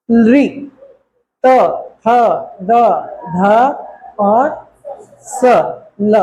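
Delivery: री, त, थ, द, ध, स, ल sounded separately against the teeth; clear letter demo. Shown as a demonstration. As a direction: drill री, त, थ, द, ध, स, ल one by one. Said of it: "अब देखो".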